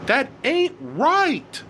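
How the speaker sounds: high-pitched wailing outburst without much extra volume; screaming. A narrator's reading. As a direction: scream it like a wronged teenager. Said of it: "screamed Elliot".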